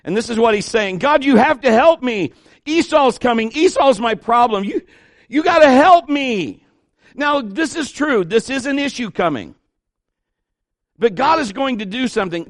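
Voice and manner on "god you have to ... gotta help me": loud, high, pleading cry for help; desperate cry to God. Retold or imitated. Pastor voicing Jacob crying out to God, loud desperate plea. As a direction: beg God loudly, voice straining upward. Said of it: "he began to cry out to God".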